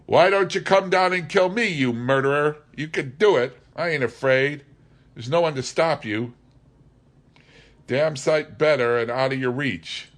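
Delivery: high, loud, furious taunting yell; raging defiance. A narrator's reading. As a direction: scream your dare up at the captain. Leach defies Wolf Larsen.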